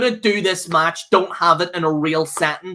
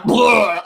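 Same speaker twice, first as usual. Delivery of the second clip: a short mock retch, a touch louder; imitated vomit noise; 3 semitones higher, 4 dB louder than usual. Vlogger imitating a wrestler throwing up, mock retch. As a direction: spit out a quick "bleh" like throwing up. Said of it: "just went".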